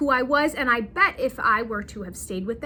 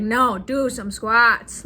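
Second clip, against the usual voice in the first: insistent husband imitation; 5 dB louder, slower than usual.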